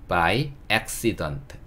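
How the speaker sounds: "by accident" 아주 느리게, 음절을 또박또박; "accident" 첫소리에 힘을 주고 끝 t까지 천천히. Shown as a demonstration. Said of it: "이거는 어떻게 발음하시냐면". ("by accident" 발음을 가르치며 천천히 또박또박)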